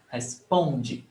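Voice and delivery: responde with a long PON and light de; stress on PON. Shown as a demonstration. Teacher repeating where stress is, weight on PON. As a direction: lean on the middle syllable of responde. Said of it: "the stress is on pom".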